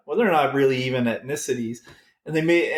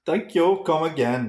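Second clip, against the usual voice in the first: mock Indian accent; 3 semitones higher than usual. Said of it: "very good Indian accent".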